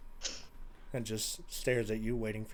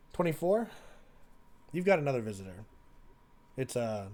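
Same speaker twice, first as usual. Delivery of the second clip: lightly voiced warden, measured; prison warden; 2 semitones lower than usual. Warden stopping an inmate about a visitor, lightly voiced authority. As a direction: call the inmate out, then ease down. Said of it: "the warden stops you and goes".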